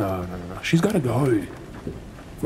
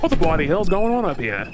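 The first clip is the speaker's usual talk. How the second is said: shouting on deck; 4 semitones higher, 4 dB louder than usual. Acted. Captain storms onto deck.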